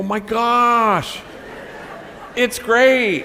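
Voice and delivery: high, loud, amazed tourist gush. Retold or imitated. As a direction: squeal it like a delighted visitor. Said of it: "they try the bread and they go".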